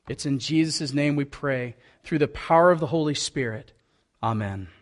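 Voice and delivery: measured, reverent pastoral prayer; public prayer. Real, not acted. Pastor praying to God before the sermon, reverent prayer. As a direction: lead them in prayer, pausing between phrases.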